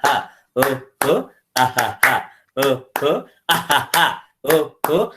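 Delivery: easy relaxed laughing chant; light belly laughter. Shown as a demonstration. Teacher shows his own light daily version, gentle chant. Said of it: "I do very lightly".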